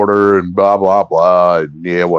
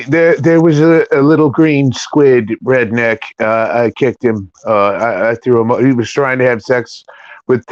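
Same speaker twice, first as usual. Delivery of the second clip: Trump voice. Pretend. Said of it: "do your Trump accent?".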